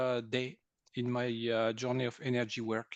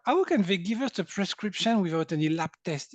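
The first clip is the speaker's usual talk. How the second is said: higher-pitched, incredulous question; amazed retelling; 5 semitones higher, 4 dB louder than usual. Retold or imitated. Patient recalling the doctor appointment, amazed. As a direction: wonder aloud how that was possible.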